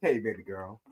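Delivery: low, soft put-on AI greeting; mock AI voice. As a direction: croon it like a smooth chatbot. Imitating the AI's greeting.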